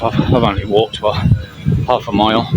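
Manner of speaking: breathless while walking; slightly winded, catching breath. Real, not acted. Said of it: "even now I'm getting out of breath".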